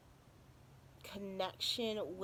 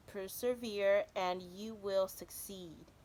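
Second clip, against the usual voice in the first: card reading. Acted. Quotes card text.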